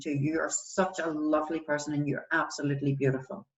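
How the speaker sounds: gentle, encouraging talk to a friend; understated reassurance; empathetic and sympathetic. Acted. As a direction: raise a friend up, sincerely. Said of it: "I would sound empathetic and sympathetic".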